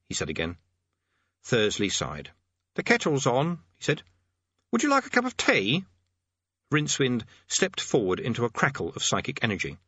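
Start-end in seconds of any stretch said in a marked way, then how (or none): 2.8-5.8 put-on high, fussy old demonologist; fussy old man voice. A narrator's reading. Thursley voiced by narrator.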